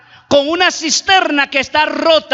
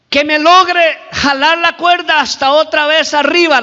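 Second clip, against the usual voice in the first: raised, higher pleading call; lightly acted shout up for rescue; 4 semitones higher than usual. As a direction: climber calling to someone above. Climber calls up to the voice.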